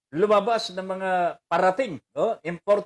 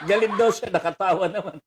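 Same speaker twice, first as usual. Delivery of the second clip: laughing; faster than usual. Real, not acted. Host teasing the priest, still laughing. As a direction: talk while still laughing.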